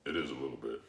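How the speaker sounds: low, quiet and deep; deep, hushed register. Real, not acted. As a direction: answer softly, down low in the voice. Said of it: "such a deep voice".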